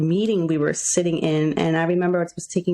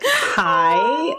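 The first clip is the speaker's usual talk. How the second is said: a high, louder squeaky hi; awkward hi; 9 semitones higher, 4 dB louder than usual. Retold or imitated. Nervously greeting her crush at work, high and squeaky. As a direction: blurt out a nervous high hello.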